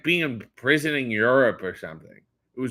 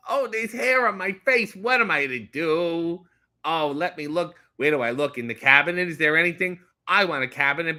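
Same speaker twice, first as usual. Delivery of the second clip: put-on six-year-old shaving with butter; 3 semitones higher than usual. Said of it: "You are six years old".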